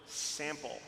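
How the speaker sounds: "sample" set apart after a pause; emphasis on sample. Real, not acted. Music director underlining a word for couples, stressing "sample" after a pause. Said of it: "I'll underline the word".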